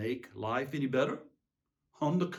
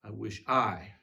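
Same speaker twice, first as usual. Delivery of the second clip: despairing fade; 7 semitones lower than usual. Acted. Collapse after the outburst.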